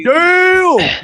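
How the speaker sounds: high, drawn-out stunned cry; high-pitched shocked reaction; astonished exclamation. Retold or imitated. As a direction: exclaim it in retold amazement. Retold stunned reaction to brawl.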